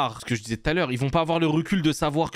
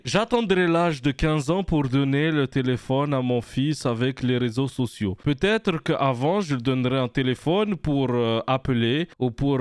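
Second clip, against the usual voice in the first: lightly put-on Russian accent, mostly his own voice; a mild Russian accent done on a dare; accent russe léger, pour un défi. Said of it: "Je fais bien l'accent russe ou pas?".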